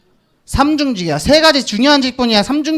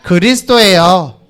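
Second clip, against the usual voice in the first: slow call-and-repeat; 4 semitones lower, slower than usual. Shown as a demonstration. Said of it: "따라해봅시다".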